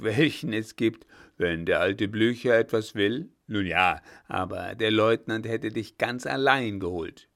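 a hint of a booming old general; old commander teasing the young lieutenant; old field marshal Blücher. Blücher voiced, amused.

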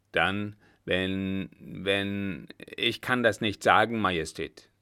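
halting, reluctant reply; hesitant. Acted. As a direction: break off, then push the words out. Coachman reluctant to tell Emperor. (zögernd, stockend)

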